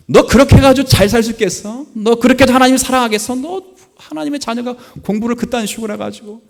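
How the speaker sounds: high, loud furious scolding; furious retold scolding. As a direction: yell at the child as he did then, fast. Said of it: "화가 꼭지까지 돌아가지고".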